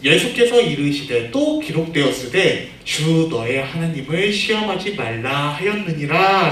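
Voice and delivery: measured, formal verse reading; reading scripture aloud. Shown as a demonstration. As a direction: read the verse out for the class. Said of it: "전도사님이 대표로 읽어줄게요".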